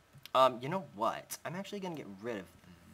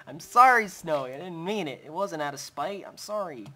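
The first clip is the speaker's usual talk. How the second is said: higher, louder, pleading apology; apologizing; 6 semitones higher, 9 dB louder than usual. Real, not acted. Gamer pleads with his wolf after upsetting her, frantic apology. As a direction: plead for forgiveness, laughing nervously.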